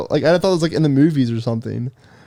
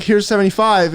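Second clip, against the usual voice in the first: higher, mildly nervous retelling; 7 semitones higher than usual. Retold or imitated. Nervous customer retelling how he offered the stripper money, higher voice. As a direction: offer it timidly, pitched up. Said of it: "I was so nervous".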